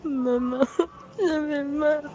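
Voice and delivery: crying for mother. Real, not acted. Woman crying out to her mother, sobbing. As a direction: wail for her mother through tears.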